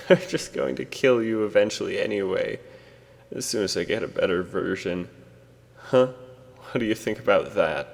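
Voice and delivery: taunting. Acted. Taunting the creature.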